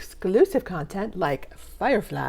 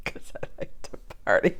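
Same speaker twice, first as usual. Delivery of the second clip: whispered, quick echo of a funny line; hushed mock quote; mimicking a film line; 10 semitones lower, 10 dB quieter, faster than usual. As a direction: whisper it back fast, softly imitating. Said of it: "repeating the funny lines back to you".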